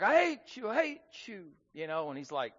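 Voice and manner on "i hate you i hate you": high echo, fading on the repeat; mimicked echo of a boy's yell, dying away; imitated echo. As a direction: bounce it back like a mountain echo. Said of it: "the echo come back".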